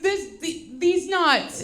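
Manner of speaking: put-on halting, stumbling kid punchline; botched joke delivery. Son botching a prank on mom, halting delivery. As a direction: imitate a boy fumbling the punchline. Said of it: "That's not how you do that".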